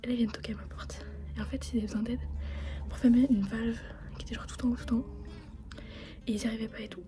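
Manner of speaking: hushed whisper late at night. Real, not acted. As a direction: whisper so as not to wake anyone.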